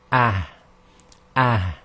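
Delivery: ah pushed gently from the chest. Shown as a demonstration. Teacher demonstrating the sakin ha to students, breathy. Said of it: "So here we have".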